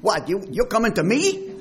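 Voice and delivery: put-on Jewish accent. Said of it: "put a Jewish accent on it".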